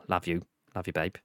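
soft, low affectionate thanks; tender. Real, not acted. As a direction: say it softly to a close friend.

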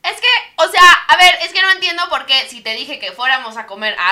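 nagging, exasperated rant in traffic; annoyed girlfriend. Acted. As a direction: complain to your boyfriend, fed up. Sketch: angry girlfriend in traffic.

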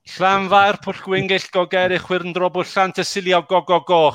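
reading out a Welsh tongue-twister; fluent, showy Welsh pronunciation; Welsh place name. Shown as a demonstration. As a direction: rattle off the long Welsh place name with relish. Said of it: "go at reading it out".

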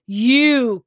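loud, drawn-out accusation; crying out. A narrator's reading. Girl discovering the man behind the puppet, crying out. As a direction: call out in shocked recognition. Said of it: "cried Autumn".

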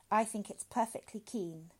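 mildly tense reply; taut. Acted. Father answers severe doctor, tautly. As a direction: hold it in tightly. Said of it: "said Welling tautly".

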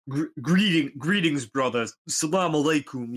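mock-solemn brotherly greeting; booming greeting. Customer hailing the cashier, loud booming voice. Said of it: "doing his whole".

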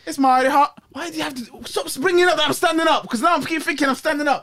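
mock Texan grumbling; Texan accent. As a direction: complain as an irritated Texan. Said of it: "two Texans".

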